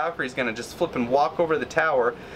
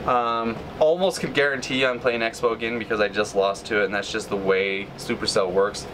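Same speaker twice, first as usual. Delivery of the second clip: ordinary delivery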